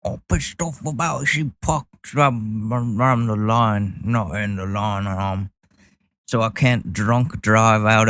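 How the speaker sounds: lightly slurred drunk impression; hammed-up tipsy grumbling; mock angry drunk. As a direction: mumble it like a mock drunk complaining. Mimicking the angry man as drunk.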